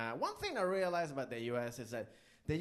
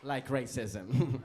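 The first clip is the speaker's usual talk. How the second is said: slow punchline; 2 semitones lower, 4 dB louder, much slower than usual. Acted. Punchline drawn out.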